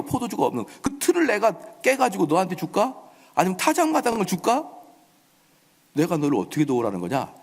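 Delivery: lightly mocking rhetorical questions; sarcastic. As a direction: scoff at an absurd request. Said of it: "아주 빈정거린 겁니다".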